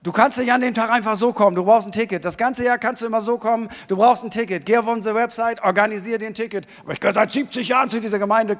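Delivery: normal talking voice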